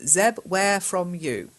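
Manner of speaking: slow, reading the student's error; careful slow read of the mistake. Shown as a demonstration. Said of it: "where are you from?".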